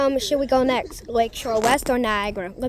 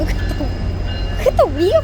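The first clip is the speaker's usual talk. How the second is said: excited; 6 semitones higher, 5 dB louder, faster than usual. Real, not acted. Marvelling at the train.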